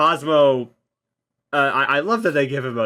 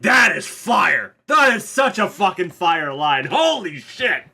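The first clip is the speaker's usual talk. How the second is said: hyped; 5 semitones higher, slower than usual. Real, not acted. Excited praise of the line.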